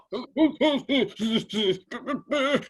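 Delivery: mock high laugh imitating a meltdown; imitating the shop guy's meltdown with a high laugh. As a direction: laugh him off as he loses it. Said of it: "this guy just having a meltdown".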